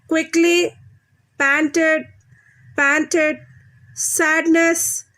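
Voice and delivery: measured word drill from "Playing" to "Judgment", first syllables stressed. Shown as a demonstration. Teacher drills children on suffix words, stressing first syllables. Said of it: "you should stress on the first syllable".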